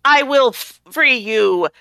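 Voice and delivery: grand heroic announcement; heroic declaiming. Acted. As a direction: declaim it like a cartoon hero. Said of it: "She's declaiming".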